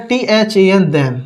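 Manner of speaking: the teacher spells "टीएचएएन" slowly, then says "then"; spelling it out. Shown as a demonstration. The teacher spells the word for students copying it, slowly. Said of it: "then का use करना है".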